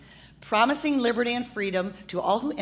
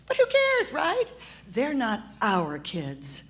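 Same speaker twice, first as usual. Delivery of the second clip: sarcastic; slower than usual. Acted. Activist mocking indifference to kids, sarcastic. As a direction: sneer it with irony.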